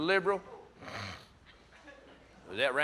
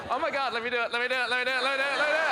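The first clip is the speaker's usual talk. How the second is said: eager begging; 3 semitones higher, much faster than usual. Retold or imitated. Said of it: "do an impression of a conservative".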